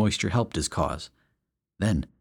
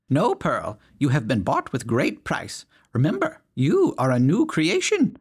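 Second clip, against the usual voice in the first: higher, pleading churchwoman; pious urging; 7 semitones higher, 3 dB louder than usual. A narrator's reading. Ladies urging Pearl to resist, higher pleading voice. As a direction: plead with him to stay strong.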